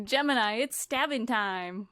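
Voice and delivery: slow, drawn-out command word; catchphrase command. Pretend. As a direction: intone it like a dramatic catchphrase.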